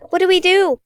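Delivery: high, panicked cry of confusion; frightened cry. Acted. Kate cries out in fear as her mind goes blank, high and panicked. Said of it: "she cried".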